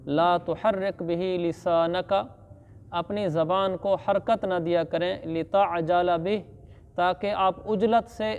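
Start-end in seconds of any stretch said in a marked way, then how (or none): 0.1-2.4 slow recited verse; Quran recitation. Acted. Teacher quoting the verse to students, slow chant. 5.2-6.4 slow recited verse; Quran recitation. Acted. Teacher quoting the verse to students, slow chant.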